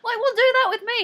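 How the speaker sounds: high, loud laughing protest; playfully indignant, half laughing; retold indignant demand.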